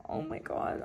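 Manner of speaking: breathless whisper. Real, not acted. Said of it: "I'm not crying".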